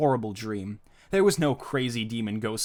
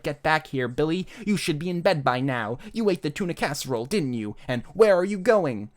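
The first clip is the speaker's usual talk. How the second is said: mildly raised scolding mom voice; half-hearted yelling, rising at the end; mock motherly screaming; 4 semitones higher than usual. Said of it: "screaming things that his mother would scream".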